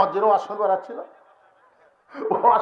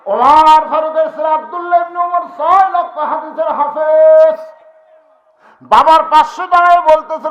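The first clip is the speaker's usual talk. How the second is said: loud, slow, higher sermon declamation; booming waz oratory; preaching at full force; 7 semitones higher, 9 dB louder, slower than usual. Acted.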